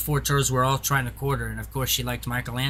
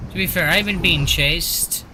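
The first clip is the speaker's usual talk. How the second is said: being chased; 3 semitones higher than usual. Real, not acted. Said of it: "I'm being chased right now".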